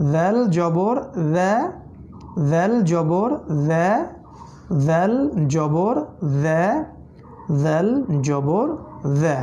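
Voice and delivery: ভেল জবর ভে chanted slowly; slow vowel drill. Shown as a demonstration. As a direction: drag ভেল জবর ভে out for students. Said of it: "জিহ্বা সামনে আসবে".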